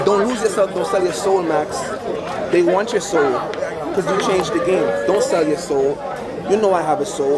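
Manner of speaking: low, grave, earnest plea; solemn warning. Real, not acted.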